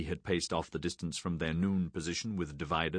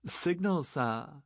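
shouted; 9 semitones higher, much slower than usual. A narrator's reading. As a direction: call it out across the deck. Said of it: "shouted from the stern rail".

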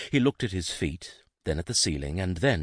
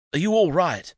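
worried; 12 semitones higher, 7 dB louder than usual. A narrator's reading. Jason rushes to hurt servant.

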